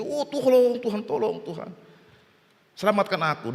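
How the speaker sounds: lightly imitated crying prayer, voice falling away; mock tearful plea. Flood victim kneels praying to God, mock tearful pleading. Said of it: "Sampai nangis-nangis dia sujud".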